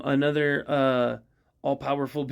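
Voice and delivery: ordinary delivery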